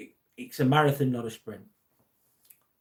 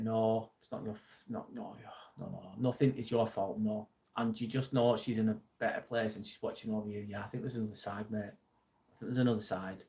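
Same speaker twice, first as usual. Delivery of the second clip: soft, subdued reassurance; gentle consoling; 3 semitones lower, 6 dB quieter than usual. Real, not acted. Streamer consoling a grieving viewer about their sister, gently reassuring. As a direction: quietly comfort someone who blames themselves.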